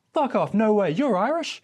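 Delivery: a cabbie who can't believe his ears; astonished taxi driver. Retold or imitated. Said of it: "just stops the car and goes".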